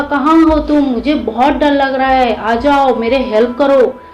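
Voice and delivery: shouting. Acted. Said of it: "जोर जोर से चिल्लाने लगे".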